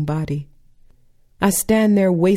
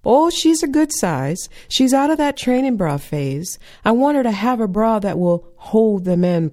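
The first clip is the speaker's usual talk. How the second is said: proud mama; 4 semitones higher than usual. Retold or imitated. Mama voiced in story.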